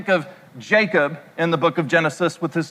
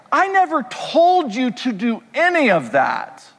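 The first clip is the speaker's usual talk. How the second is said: a lightly voiced dad, higher and unbothered; imitating his dad; 5 semitones higher than usual. Preacher voicing his dad denying any pressure, lightly higher. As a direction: shrug it off as the father. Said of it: "And he'll say".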